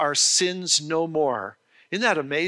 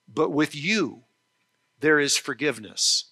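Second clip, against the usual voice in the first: solemn reading; 3 semitones lower than usual. Shown as a demonstration. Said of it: "I want you to hear this statement of faith".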